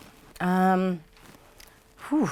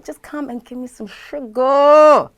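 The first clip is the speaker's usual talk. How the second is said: louder, slower call for hugs; loud sweet invitation; 9 semitones higher, 10 dB louder than usual. Real, not acted. Calling listeners to come hug her, loud and slow. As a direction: beckon them in warmly.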